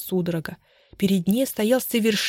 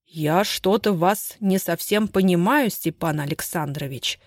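changed voice; slower than usual. Acted. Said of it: "изменившимся голосом произнёс Махович".

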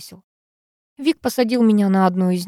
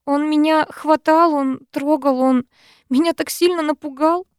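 tearful; 8 semitones higher than usual. Acted. Heroine tearful.

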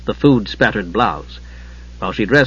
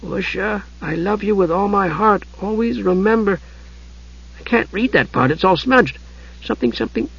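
high kender voice, picking through words; reading note aloud; 8 semitones higher than usual. A narrator's reading. Tas reading Palin's note to Usha, haltingly. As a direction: read haltingly as if deciphering a scrawl.

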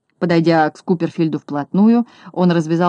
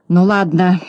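grumbling; 4 dB louder, slower than usual. Acted. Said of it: "проворчал Скуперфильд".

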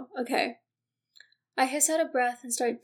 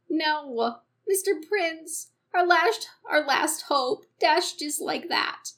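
put-on Minnesotan accent; 3 semitones higher, 4 dB louder, slower than usual. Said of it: "why do I wanna go Minnesotan suddenly".

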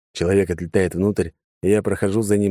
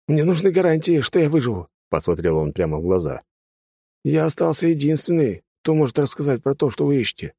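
higher, insistent bargaining; wary prisoner; 8 semitones higher than usual. A narrator's reading. Prisoner demanding guarantees from the mage, higher insistent voice. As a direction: press for a guarantee.

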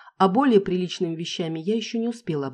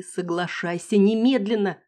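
insistent urging; 4 semitones higher, 5 dB louder than usual. Acted. Kassia urging in head.

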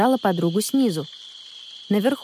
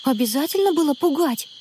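annoyed; 7 semitones higher than usual. A narrator's reading. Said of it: "рассердилась Анна".

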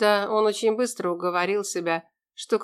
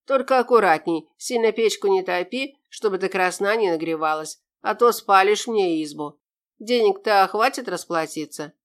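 creaky voice; 4 dB louder than usual. Acted. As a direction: creak it out like a stingy old man. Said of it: "скрипучим голосом сказал мужичок".

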